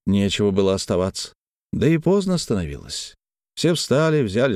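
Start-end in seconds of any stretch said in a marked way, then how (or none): none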